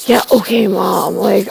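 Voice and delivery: put-on a teen waving off his mother; mock dismissive brush-off. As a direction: brush Mom off like a bored teen. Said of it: "it's like".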